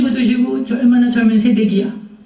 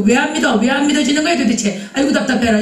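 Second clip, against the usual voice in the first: higher-pitched, frustrated nagging; mock exasperation; 3 semitones higher than usual. Badgering someone weak in faith to believe, mock exasperated. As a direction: act out losing patience with a doubter. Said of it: "이렇게 하고 탁 쥐어박고".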